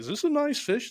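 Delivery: high, innocent-sounding voice.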